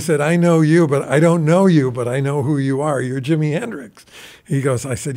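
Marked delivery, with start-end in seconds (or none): 0.2-4.1 excited fan. Retold or imitated. Retold excited meeting with a famous guitarist.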